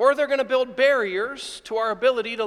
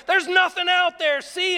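higher, raised voice scolding the dog; scolding yell at dog; 8 semitones higher than usual. Retold or imitated. Pastor scolding his barking dog at the door, a high raised yell. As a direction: yell it out as you fling open the door. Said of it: "And I yell at my dog".

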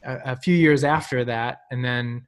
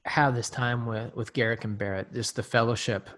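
prayer; 2 semitones lower than usual. Real, not acted. Opening prayer.

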